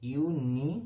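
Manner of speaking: ইউনিয়ন broken up, opening on a clear "yu"; pronunciation demo. Shown as a demonstration. Teacher showing the first sound of ইউনিয়ন, syllables held apart. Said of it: "না, উচ্চারণ ইউ হচ্ছে".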